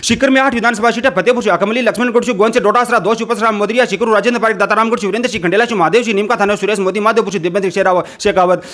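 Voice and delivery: rapid-fire list recitation; all in one breath. Shown as a demonstration. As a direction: rattle off the names nonstop. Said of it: "दो सौ साठ second के अंदर बता दिए हैं".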